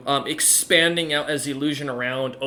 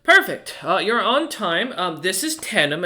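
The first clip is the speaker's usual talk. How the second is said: much higher, pleased banker voice; banker welcome; 4 semitones higher than usual. Acted. Dwarf banker welcoming James and Roloman, higher and pleased. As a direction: chirp it brightly like a fussy clerk. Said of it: "She nods and goes".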